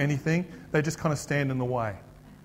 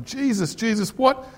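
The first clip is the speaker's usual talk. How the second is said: higher-pitched, eager appeal; pleading seeker; 4 semitones higher than usual. Acted. Man coming up to Jesus about getting into heaven, eager pleading. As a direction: call on the teacher urgently. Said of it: "this guy comes up to him".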